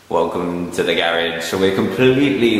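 echoey garage voice; speaking in an echoing empty room; echoing under a bridge. Real, not acted. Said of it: "wow, it's so echoey in here".

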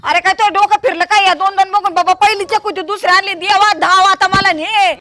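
exasperated lament. Acted. Mother lamenting son's second wife, exasperated wail. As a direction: bewail it, ending in an appeal to God.

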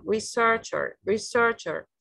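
"Researcher" with SEARCH stressed; stress on second syllable. Shown as a demonstration. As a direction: model "researcher" as re-SEARCH-er, falling after. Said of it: "The stress is on the second one".

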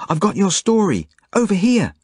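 high-pitched calling out across a distance; yell. A narrator's reading. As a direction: call him over, pitched high. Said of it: "I yell at the Nazi officer".

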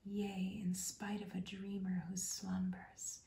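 rhythmic, measured whispered verse; whispered poem reading. Acted. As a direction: bedtime poem whispered with steady rhyme. Reads the poem as bedtime whisper.

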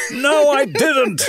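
robotic recorded voice. Retold or imitated. Phone recording answering back.

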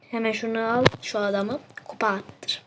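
whispered line, voice gone; lost voice. Real, not acted. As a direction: rasp it out as if the voice is gone. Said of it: "sesim gitti". (sesi gitmiş gibi fısıltıyla)

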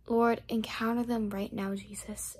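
earnest spoken prayer. Real, not acted. Speaker praying aloud over each viewer. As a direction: pray over them from the heart.

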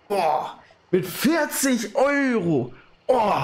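high, slow, near-tearful; almost crying from joy; overwhelmed. Real, not acted. Überwältigt von Vierzig-Euro-Spende. (den Tränen nahe vor Freude)

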